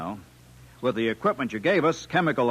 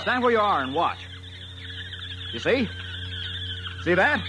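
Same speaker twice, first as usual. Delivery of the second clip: triumphant; 10 semitones higher than usual. Acted. Engineer shows off the trap.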